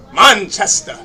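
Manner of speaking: attempted British accent; British accent try. Shown as a demonstration. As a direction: practise Manchester the British way. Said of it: "I'm working on the accent".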